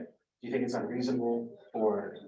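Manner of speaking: hoarse, strained voice; talking through a hoarse, failing voice; losing voice. Real, not acted. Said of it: "I'm losing my voice".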